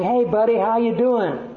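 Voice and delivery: put-on proud father gushing to his little boy; father cheering son. Father on the phone to his son, proud and excited. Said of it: "you hear this father talking to his son".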